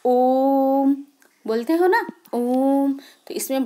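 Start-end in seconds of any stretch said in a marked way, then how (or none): 0.0-0.9 ओम held long, a bit louder; drawn-out pluta vowel. Shown as a demonstration. Teacher demonstrating pluta vowel length to students, drawn out. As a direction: sustain ओम like a chant. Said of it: "इसमें मुख्यतः".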